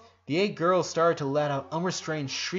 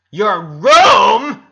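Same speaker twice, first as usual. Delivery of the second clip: high, loud shocked scream; 8 semitones higher, 19 dB louder than usual. A narrator's reading. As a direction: shriek it in scandalized glee. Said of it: "Lynn screamed".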